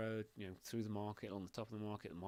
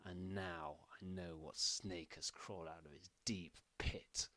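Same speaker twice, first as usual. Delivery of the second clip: Queen hissing her contempt at Danilo; malicious whisper. Acted. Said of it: "says those words with absolute malice".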